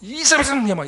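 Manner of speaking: loud, high, sputtering protest; flustered angry complaint. Retold or imitated. Pastor answering God while still angry, sputtering protest. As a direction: splutter it out, still fuming. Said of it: "이렇게 화가 나서 와 막 이러고".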